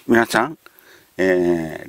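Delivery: ordinary talk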